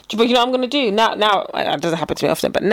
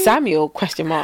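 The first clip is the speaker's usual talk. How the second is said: slow, low, deadpan read-out; baffled text reply; 8 semitones lower, slower than usual. Acted. Imagining his typed reply to the prank, deadpan bafflement. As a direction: spell out the puzzled message deadpan. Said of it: "He's gonna be like".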